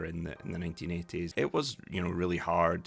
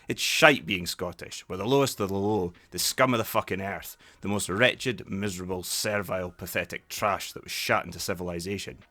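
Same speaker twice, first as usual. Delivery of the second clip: loud, disgusted tirade; Ewan McGregor's character; 3 semitones higher, 6 dB louder than usual. Acted. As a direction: spit out a bitter rant at your friend. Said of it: "Ewan McGregor's character turns around and goes".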